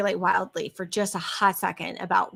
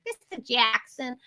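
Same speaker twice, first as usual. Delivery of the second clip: put-on Boston accent; 2 semitones higher than usual. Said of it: "very thick Boston accent".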